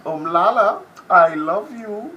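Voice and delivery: loud slow declaration of love; loud affectionate shout-out. Real, not acted. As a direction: call it out across the room.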